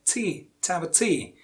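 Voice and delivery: T held alone, then devotee ending on a strong TEE; last-syllable stress. Shown as a demonstration. Teacher giving the answer, stressed on TEE. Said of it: "Of course, the last one".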